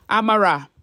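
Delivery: ordinary delivery, nothing marked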